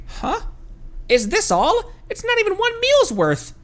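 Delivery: high, whiny little companion; Paimon's whiny voice. Acted. Paimon protesting as the dad leaves, high whine. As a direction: whine it up high like a pouting sidekick.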